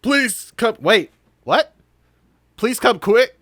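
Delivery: urgent plea. Acted. Game character calling for police.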